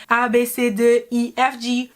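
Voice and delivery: imitating a learner, French "A, B, C, D" turning English by "G"; half-French alphabet. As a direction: start "A, B, C" in French, give up halfway into English letter names. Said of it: "pronunciation at the beginning is okay".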